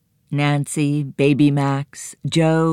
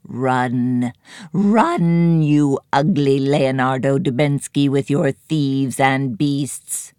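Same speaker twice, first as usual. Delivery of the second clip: shrieking crone. Acted. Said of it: "the high shriek of a crone".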